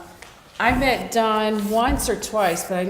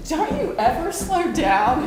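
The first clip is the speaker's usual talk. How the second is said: breathless exclaim; 7 semitones higher, 6 dB louder than usual. Retold or imitated. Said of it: "the whole time I'm like".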